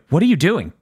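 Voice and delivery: mildly urgent acted question; lightly voiced warning. Denji to a staring bystander, mildly urgent warning. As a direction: lightly act out an urgent challenge. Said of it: "And then she's like".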